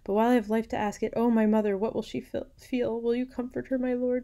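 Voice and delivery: high-pitched urgent plea; pleading daughter. A narrator's reading. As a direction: plead for your mother, pitched high throughout. Dying Matilda pleads for her mother.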